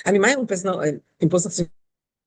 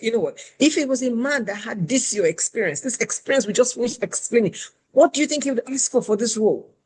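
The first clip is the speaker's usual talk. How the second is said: angry recruiter; 5 semitones higher than usual. Retold or imitated. Recruiter challenging a woman on pay, rising anger. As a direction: imitate her building up the man comparison. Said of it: "She got even madder".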